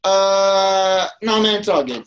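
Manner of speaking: high voiced, dismissive beggar; mimicking beggar. Beggar refusing the burrito, lightly mocked voice. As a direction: brush off the offer in a put-on voice. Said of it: "He's like".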